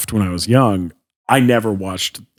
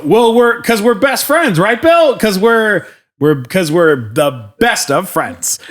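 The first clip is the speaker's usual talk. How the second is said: nervous high squeak; 9 semitones higher, 5 dB louder than usual. Retold or imitated. Nervous fanboy pleading to Shatner.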